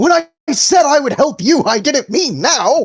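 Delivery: shrill, very high, drawn-out yell. Voicing a character running toward a friend dragged by ants: yelling. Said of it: "just yelling out of just".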